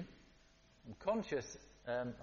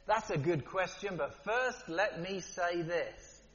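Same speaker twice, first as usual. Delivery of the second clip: Jesus's calm reply; slower than usual. Retold or imitated. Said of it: "it's different when Jesus does it".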